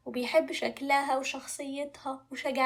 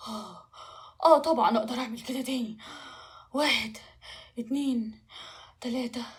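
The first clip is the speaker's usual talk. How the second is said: audible breaths between phrases; puffing dragon. Acted. Dragon accepts princess's challenge, puffing. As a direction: puff before each count. Tired dragon puffs before second flight.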